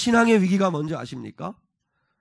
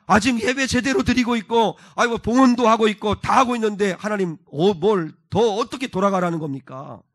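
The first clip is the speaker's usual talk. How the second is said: indignant protest; 4 semitones higher, 4 dB louder than usual. Acted. Acted protest to God's call back.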